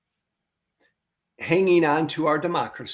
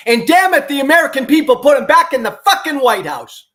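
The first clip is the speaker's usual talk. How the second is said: much higher and louder, shouting in disgust; furious outburst; 12 semitones higher, 10 dB louder than usual. Real, not acted. Angry commentator rants to his audience about the election, furious shout. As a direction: blow up at the American people. Outraged at Trump's return.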